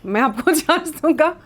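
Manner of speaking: a defiant retort that breaks into laughter; retelling Parvez ji's comeback, laughing through it. Retold or imitated. Retelling Parvez ji's sharp comeback to the producer, laughing. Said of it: "तो परवेज जी ने बोला".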